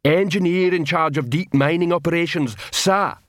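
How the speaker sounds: a dim troll sounding off proudly; troll shouting to attention. Acted. Troll guard shouting his captain's name.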